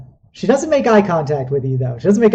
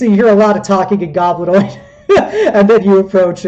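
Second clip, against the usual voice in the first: laughing, louder and fast; giggling through the setup; amused narration with laughter; 4 semitones higher, 7 dB louder, faster than usual. Real, not acted.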